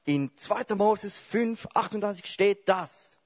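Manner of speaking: a smug Bible quoter scoring a point; know-it-all debater. Pretend. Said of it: "Da sagt vielleicht der eine". (besserwisserisch, höher und langsam, zitiert einen Bibelvers)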